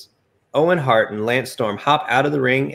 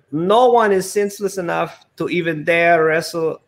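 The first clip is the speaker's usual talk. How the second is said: Lana's boast; 6 semitones higher than usual. Acted. Lana, announcer voice in story.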